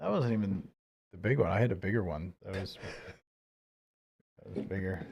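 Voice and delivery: very quiet, barely-there, hushed half-whisper. Mentioning a bigger feat while talking about the Hell's Angels: half-whispering. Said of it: "why are you whispering about it?".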